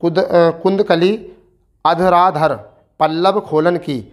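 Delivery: slow, measured recital of the verse; poem recitation. Acted. Teacher reciting a Tulsidas verse to students, slow and measured. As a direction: savour each phrase like a poet reading aloud.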